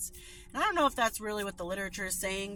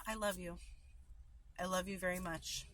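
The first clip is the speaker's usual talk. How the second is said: softer, tender "I love you"; soft loving tone; 6 dB quieter than usual. Shown as a demonstration. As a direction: say it gently like you mean it. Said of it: "Or you can say".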